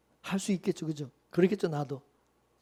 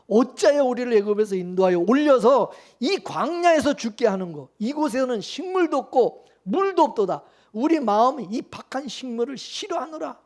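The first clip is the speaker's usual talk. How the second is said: mild scriptural complaint. Acted. Israelites grumbling to God and Moses about the wilderness, mildly complaining. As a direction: read out as the people's grievance. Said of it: "백성이 하나님과 모세를 향하여 원망하되".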